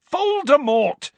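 loud, high shouted name, slow; furious shout. A narrator's reading. Harry shouting the name at his friends, furious. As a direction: spit the name out in fury. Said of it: "said Harry furiously".

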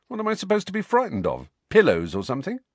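high, fast, scoffing question. Acted. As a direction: laugh it off. Harry scoffing.

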